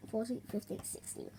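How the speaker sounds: hushed whisper. Real, not acted. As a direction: whisper the count. Counting down to a whisper.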